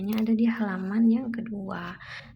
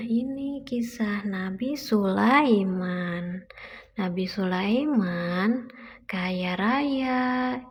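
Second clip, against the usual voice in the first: put-on reading to a toddler. Mother reads picture book aloud.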